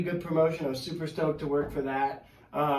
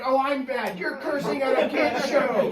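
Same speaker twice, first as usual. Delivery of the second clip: mock sarcastic heel; 9 semitones higher, 4 dB louder than usual. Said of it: "And I was like".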